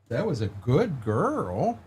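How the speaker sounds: slow, soft praise for a dog; drawn-out coo to a good dog. Real, not acted.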